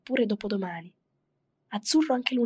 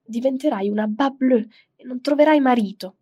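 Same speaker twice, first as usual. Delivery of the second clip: loud, higher scolding nag; scolding mother; 4 semitones higher, 8 dB louder than usual. Retold or imitated. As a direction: scold her like a fed-up mother. Mother scolding girl at book.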